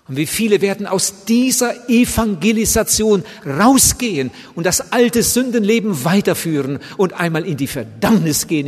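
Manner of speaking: full-force hellfire preaching; fiery preaching. Acted. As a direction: thunder it at the congregation. Preaching warning of hell.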